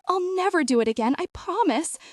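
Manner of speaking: frightened promise. A narrator's reading. Terrified robber promises.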